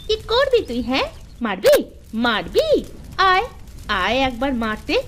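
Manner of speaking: shrill-edged quarrel taunt; taunting challenge. Acted. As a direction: goad her to strike you. Co-wife quarrel, daring her to hit.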